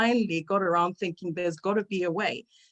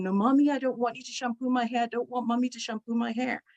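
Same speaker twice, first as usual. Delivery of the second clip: higher, childlike wailing imitation; a hint of a toddler refusing bath time; mild mock child scream; 5 semitones higher than usual. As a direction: play the protesting little girl, lightly. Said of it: "she starts screaming again".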